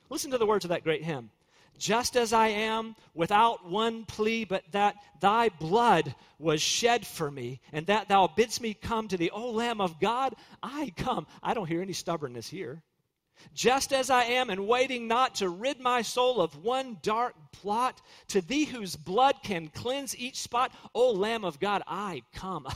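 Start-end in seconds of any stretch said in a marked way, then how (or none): 1.8-11.3 slow, reverent hymn recitation. Acted. Preacher reciting the hymn to his congregation, slow and reverent. 13.5-22.7 slow, reverent hymn recitation. Acted. Preacher reciting the hymn to his congregation, slow and reverent.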